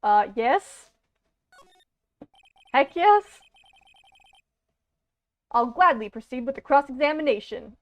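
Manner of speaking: put-on earnest, nervous young hero voice; anime protagonist voice. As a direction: champion a cause, a bit nervously. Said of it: "I love doing this anime protagonist voice".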